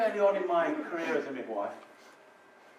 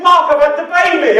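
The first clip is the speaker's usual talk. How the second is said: retelling her announcement; 9 semitones higher, 11 dB louder than usual. Retold or imitated. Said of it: "She said".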